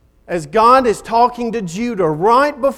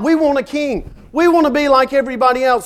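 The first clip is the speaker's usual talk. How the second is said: demanding crowd; 6 semitones higher, faster than usual. Retold or imitated. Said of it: "Israel cried out".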